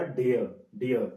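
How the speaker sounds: falling डियर, r dropped; right way. Shown as a demonstration. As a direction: model the correct डियर. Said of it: "नहीं बोलना, क्या?".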